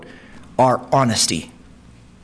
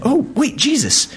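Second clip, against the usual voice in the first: dramatic cry; 11 semitones higher than usual. Retold or imitated. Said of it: "it's so dramatic".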